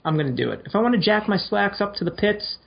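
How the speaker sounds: mildly defiant, pitch climbing with each vow; mock defiance. Acting out defiant slacks jacker.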